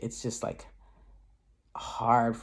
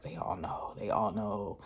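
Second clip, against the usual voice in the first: softly imitated inner doubt; little voice of doubt; 2 semitones lower, 6 dB quieter, slower than usual. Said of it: "that little voice of doubt".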